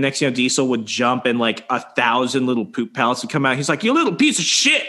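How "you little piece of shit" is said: high-pitched mock outrage; retold exasperated yelp, pitched up; mock scolding. Friend scolding his pooping rabbit, mock outrage.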